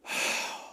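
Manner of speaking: acted unvoiced exhale before the mirror; bracing morning sigh; weary sigh. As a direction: let out a tired breath. Acts facing the morning mirror.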